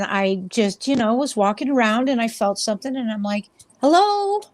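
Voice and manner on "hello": high sing-song hello; high calling out. Retold or imitated. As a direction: call out sweetly and high. Calling out to a ghost.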